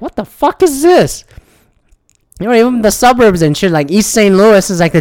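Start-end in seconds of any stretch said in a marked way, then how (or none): 0.0-1.2 much higher, incredulous outburst; high-pitched what-the-hell squeal; shocked disbelief. Retold or imitated. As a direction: act stunned by what you see. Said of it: "I was like".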